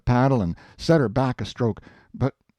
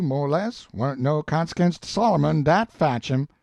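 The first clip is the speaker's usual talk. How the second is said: higher, insistent Southern dialect voice; stubborn Jim, arguing; 5 semitones higher than usual. Acted. Jim lecturing Huck about Solomon and children, insistent. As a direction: argue the point with homespun conviction.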